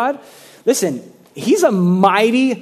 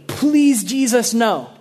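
higher, mock-terrified begging; cowering plea; 5 semitones higher, slower than usual. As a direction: beg like a cowering demon. Demons begging Jesus.

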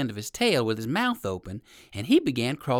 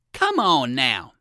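called out; 5 dB louder, slower than usual. Acted. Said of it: "he called to Uncle Wiggily".

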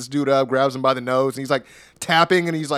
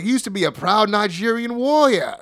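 higher, mock-proud Nigerian accent; 6 semitones higher than usual. Waller mocks Apollo's old accent, Nigerian accent. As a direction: put on a booming Nigerian accent. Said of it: "what happened to his accent".

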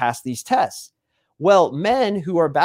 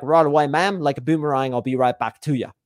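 put-on Australian accent. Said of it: "ask me in an Australian accent".

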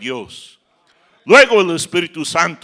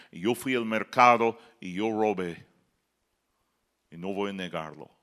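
humble confession; 5 semitones lower, 7 dB quieter than usual. Acted. Honest prisoner confesses.

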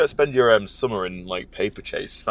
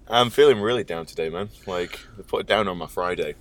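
morning voice. Real, not acted. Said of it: "also got his morning voice".

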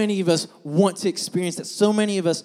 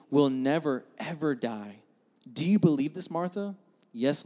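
measured Bible story narration; sermon reading with weighted pauses; scripture reading; 3 semitones lower than usual. A narrator's reading. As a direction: read the passage aloud to a congregation, solemnly. Reads the Bible story aloud.

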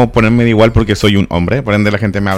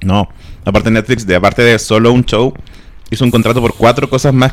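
speaking around a mouthful; chewing while talking. Real, not acted. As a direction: mouth full. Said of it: "perdón, estoy comiendo".

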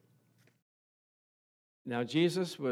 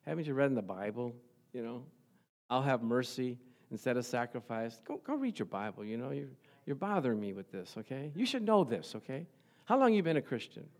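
mock impatient scolding; not very gracious. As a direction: brush them off with mild irritation. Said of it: "our not very gracious way".

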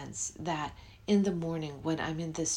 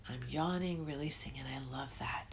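soft whispered affirmation; 3 semitones lower, 6 dB quieter than usual. Shown as a demonstration. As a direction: repeat it again much softer, sliding into a whisper. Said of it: "I'm gonna say".

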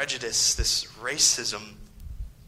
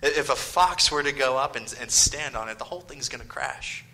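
mild mocking scoff; 2 semitones higher, 3 dB louder than usual. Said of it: "he says".

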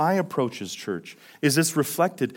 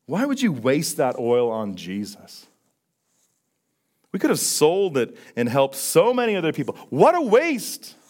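indignant disciples building to a shout; mock indignation; 3 semitones higher, 4 dB louder than usual. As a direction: act out the disciples' outrage. Voicing scolding disciples.

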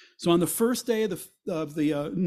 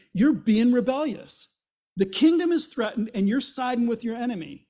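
louder, higher scolding, a bit slowed; mock angry king; 4 semitones higher, 4 dB louder than usual. Preacher paraphrasing Saul's curse, mock angry scolding. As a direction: rebuke him like the angry king.

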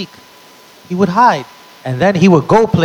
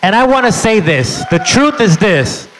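shouting to crowd; 5 semitones higher than usual. Real, not acted. Comedian closing to the crowd.

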